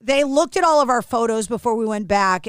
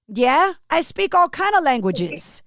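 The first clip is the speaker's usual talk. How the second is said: slow imitated Brooklyn accent; lightly hammed-up Brooklyn accent; put-on Brooklyn accent; 3 semitones higher than usual. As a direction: play a matter-of-fact Brooklyn guy, unhurried. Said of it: "I'm gonna do this accent".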